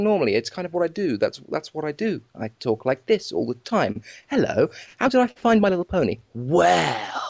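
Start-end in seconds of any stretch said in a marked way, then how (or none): 4.3-6.2 Doctor Who voice. Pretend. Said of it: "you talk like the doctor".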